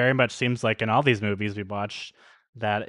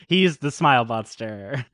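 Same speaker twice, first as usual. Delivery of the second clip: laughing. Real, not acted. Laughing while naming monster.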